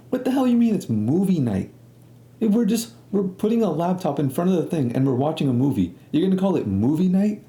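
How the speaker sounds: high-pitched, incredulous protest. Retold or imitated. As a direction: scoff in disbelief at the very idea. Mock disbelief at movie night label.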